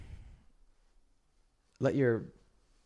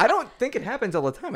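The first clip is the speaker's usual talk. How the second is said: laughing; 10 semitones higher than usual. Real, not acted. Laughing protest.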